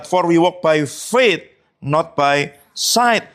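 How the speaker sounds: membaca ayat dengan sangat lambat dan khidmat; ayat dibacakan. Acted. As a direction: ucapkan ayat Alkitab perlahan, kata demi kata. Quoting scripture in English. (membacakan ayat dalam bahasa Inggris dengan sangat lambat)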